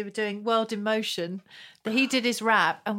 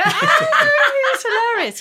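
laughing; 11 dB louder, much slower than usual. Real, not acted. Recalling funny footballer.

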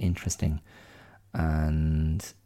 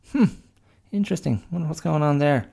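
high, curious pig voice; a pig wondering aloud; high pig musing; 9 semitones higher, 3 dB louder, faster than usual. Retold or imitated. Pig dialogue continues.

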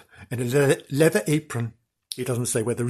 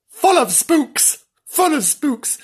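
spooky sing-song; 6 dB louder, slower than usual. Acted. Spooky repetition.

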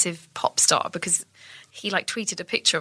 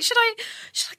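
high, hesitant questioning; mock uncertainty. Actor unsure after cut was called, high mock hesitancy. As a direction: replay being unsure whether to carry on.

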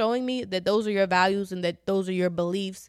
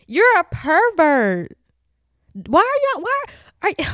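slow, louder accusation, drawn out; loud scolding; 8 semitones higher, 8 dB louder, slower than usual. Retold or imitated. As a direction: call him out, each word leaned on.

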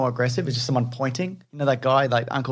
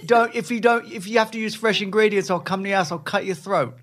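high-pitched mock British chef, comically menacing; Jamie Oliver impression; 5 semitones higher than usual. Husband escalates the chef bit to threats, mock British voice. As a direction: threaten like a British TV cook gone too far. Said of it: "I'm Jamie Oliver".

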